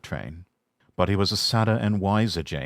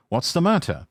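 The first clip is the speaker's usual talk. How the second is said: engine voice; 9 semitones higher than usual. Acted. James voiced in read story.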